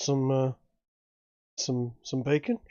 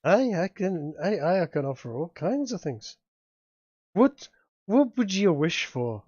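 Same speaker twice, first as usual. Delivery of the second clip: lightly voiced dealmaker, tempting; Seamus. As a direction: make the offer, slowing right down on the final question. Game master plays Seamus offering a deal.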